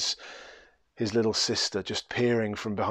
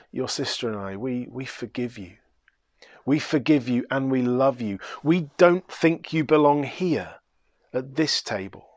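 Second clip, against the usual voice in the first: tender forgiveness. Acted. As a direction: offer forgiveness like an embrace. Bridegroom offers forgiveness.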